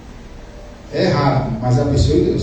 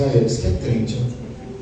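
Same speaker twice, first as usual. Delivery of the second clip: grandmother scolding; 5 semitones lower, 7 dB quieter, slower than usual. Retold or imitated. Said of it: "ela falou assim".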